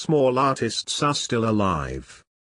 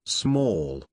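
robot sinking on small; glitching robot; 6 semitones lower than usual. Acted. Robot loops on paradox.

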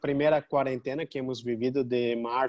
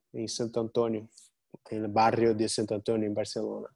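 Portuñol accent; 2 semitones lower, 3 dB quieter, faster than usual. Real, not acted. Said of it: "perdona mi portuñol".

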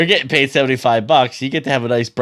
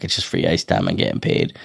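much lower, lazy quoted bragging; low mock dude voice; 14 semitones lower, 4 dB quieter than usual. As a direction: drop way down like a chill bro. Quoting Jay's laid-back boast.

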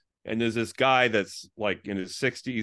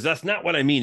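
retold exasperation, a little higher; mildly frustrated; 3 semitones higher, 4 dB louder than usual. Man pressing him on his faith, mildly frustrated. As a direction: lightly act out a frustrated questioner. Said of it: "He gets all frustrated".

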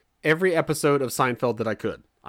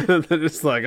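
ordinary talk

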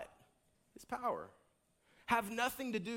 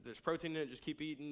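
gentle correction; 6 semitones lower, 5 dB quieter than usual. Retold or imitated. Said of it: "there's a gentle".

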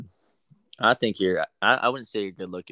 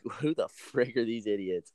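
mock Spetsnaz chief; 5 dB quieter, slower than usual. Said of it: "The head of Spetsnaz is sitting there like".

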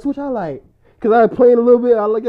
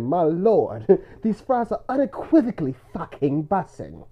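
imitating brother; 3 semitones lower, 4 dB quieter than usual. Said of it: "He said".

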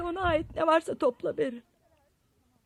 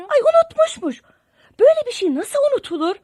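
mocking; 7 semitones higher, 7 dB louder than usual. Mocking sister's excuse.

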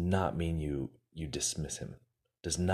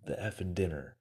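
imitating the manager's angry interruption; cutting him off; 4 semitones higher, faster than usual. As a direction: cut in hard and fast. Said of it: "the manager cuts him off".

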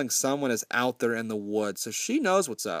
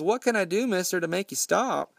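begging for mercy; 6 semitones higher than usual. Retold or imitated. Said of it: "The kid's begging for mercy".

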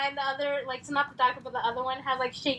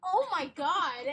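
laughing mock shock; 3 semitones higher, slower than usual. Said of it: "she's like".

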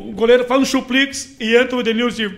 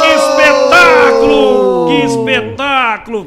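mock celebration; 6 dB louder, slower than usual. Mock commentator after goal.

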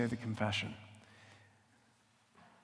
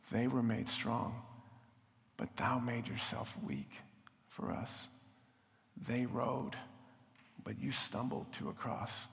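hushed, softer whisper; whispered worship; 3 semitones lower, 7 dB quieter than usual. Real, not acted. Preacher whispering thanks to Jesus, hushed. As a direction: breathe it out to God.

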